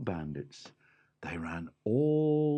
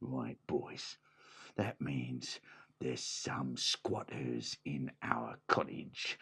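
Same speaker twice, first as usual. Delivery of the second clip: scheming bandit boss; 5 semitones lower than usual. Acted. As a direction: plot it low to the gang. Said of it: "Scarface Bob said".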